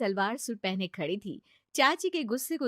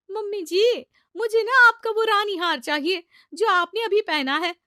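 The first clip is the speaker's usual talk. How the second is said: much higher, loud sweet demand; cheeky bride; 11 semitones higher, 11 dB louder than usual. Acted. Sheena asks her mother-in-law for the queen necklace, high sweet demand. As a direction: sweetly ask for the best necklace.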